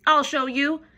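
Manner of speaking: loud high huffy screech. A narrator's reading. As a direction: storm off threatening. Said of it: "screeched the grouchy ladybug".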